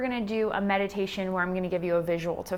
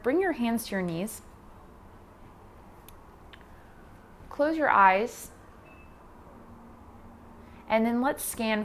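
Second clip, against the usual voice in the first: calm instruction with long pauses between cues; guided meditation. Acted. Yoga teacher guiding beginners through posture and breath, guided meditation. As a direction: talk them through it, unhurried, leaving space.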